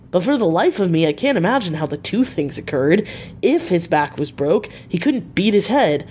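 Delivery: lightly voiced attendant, pitch swinging up and down; puzzled attendant. Attendant puzzling over injuries to the doctor, lightly voiced bewilderment. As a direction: puzzle it through with a lilting, rise-and-fall tune.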